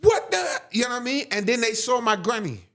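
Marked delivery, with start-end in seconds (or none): 0.0-0.6 high mock-startled outburst; retold shock. Retold staff jumping up in shock.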